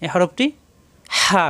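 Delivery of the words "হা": হা pressed from mid-throat; pharyngeal letter. Shown as a demonstration. Teacher shows learners where the letter forms, হা pressed from mid-throat. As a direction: squeeze হা out of the middle of the throat. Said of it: "কণ্ঠনালীর মাঝখানে চাপ দিয়ে উচ্চারণ করতে হবে".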